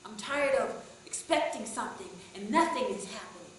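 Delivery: loud, high, ranting complaint; angry shout. Retold or imitated. Fed-up man rants at the preacher, angry shout. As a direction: rant it at full volume. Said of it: "And he shouted again".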